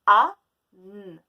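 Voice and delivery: A, N dits très fort, détachés; sons appuyés. Shown as a demonstration. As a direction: marteler chaque son. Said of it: "on entend". (sons martelés)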